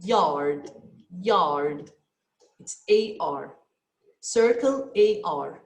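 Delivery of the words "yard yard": "Yard" said three times low and deliberate; teacher dictating a listening item; dictation word. Shown as a demonstration. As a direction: read the test word slowly. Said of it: "which one?".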